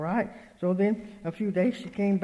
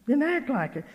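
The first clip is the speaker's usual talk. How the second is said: higher-pitched, insistent repeat; emphatic admonition; 5 semitones higher than usual. Retold or imitated. Speaker urging child of God, insistent retold admonition. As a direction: press it home with lifted voice.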